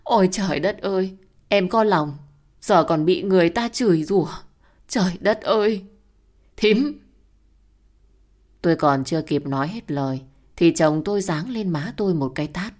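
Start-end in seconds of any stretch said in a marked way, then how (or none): 0.0-7.0 high, loud mock lament; theatrical wailing. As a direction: wail it to the heavens, higher and higher. Hoa wails theatrically to the sky.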